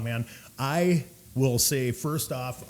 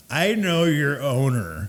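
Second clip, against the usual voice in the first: slow, self-important mock customer; name-dropping customer; 3 semitones higher, 5 dB louder, slower than usual. Customer name-dropping to the bartender, mock self-importance. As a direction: imitate someone pulling rank, drawn out.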